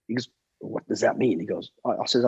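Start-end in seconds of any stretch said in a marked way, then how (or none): 0.6-1.4 lightly imitated low film-star voice; a hint of the movie legend, pitched low; Clint Eastwood. Film star questioning a bodyguard, light low impression. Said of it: "and in, in that accent".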